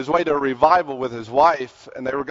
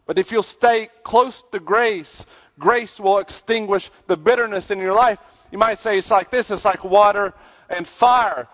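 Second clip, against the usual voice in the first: raised, emphatic sermon voice; preaching; 7 semitones higher, 4 dB louder than usual. Acted. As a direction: drive the point home to a congregation. Preaches to congregation.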